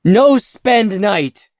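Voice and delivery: high, loud, slow panicked cry; terrified plea. A narrator's reading. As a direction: beg in terror, words breaking apart. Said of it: "face melting with terror".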